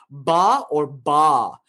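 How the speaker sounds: ba first short, then drawn out long; short and long vowel. Shown as a demonstration. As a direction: contrast a short ba with a long, slow ba. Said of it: "there are two long syllables".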